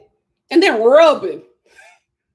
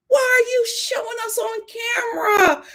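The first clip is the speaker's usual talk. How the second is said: exasperated cry; 9 semitones higher than usual. Real, not acted. Exasperated at Harris.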